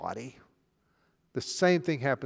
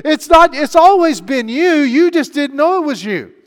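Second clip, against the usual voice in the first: higher and louder, hammering each name; preaching at full force; 12 semitones higher, 12 dB louder than usual. Acted. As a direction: pound it out like a revival preacher.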